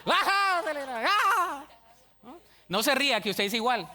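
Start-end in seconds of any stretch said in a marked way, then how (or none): 0.0-1.6 mock shout. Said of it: "shouting to show passion".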